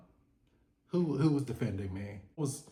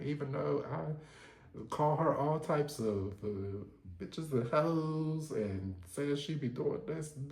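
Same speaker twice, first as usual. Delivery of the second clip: mildly voiced hurt rant, softer, hinting at tears; emotional, hurt Lisa; 4 semitones higher, 4 dB quieter than usual. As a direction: play Lisa wounded and lashing out, held back. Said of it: "she gets emotional because she's like".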